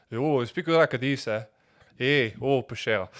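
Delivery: loud, drawn-out southern French; southwest French accent. Shown as a demonstration. Showing how his home region speaks, southwest French accent. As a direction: call out with a southwest France accent. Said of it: "and Southwest, where I come from".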